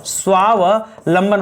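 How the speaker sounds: स्वावलंबन होगा stretched out slowly, syllable by syllable; slow down and lay out स्वावलंबन clearly; slow, careful correct word. Shown as a demonstration. Teacher slowly repeating the right word for students. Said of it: "क्या होगा दोस्तों?".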